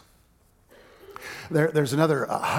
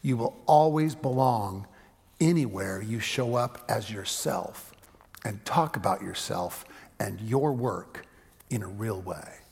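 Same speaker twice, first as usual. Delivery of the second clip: quoting husband; 4 semitones lower than usual. Retold or imitated. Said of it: "and I'm quoting".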